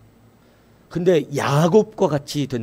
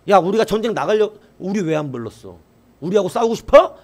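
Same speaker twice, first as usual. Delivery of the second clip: mock bullying challenge, rising higher and louder at the end; retold threat; 4 semitones higher, 4 dB louder than usual. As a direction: play the pushy tribe picking a fight. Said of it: "이렇게 협박하는 거예요". (에브라임이 길르앗 백성을 협박하듯 과장된 말투)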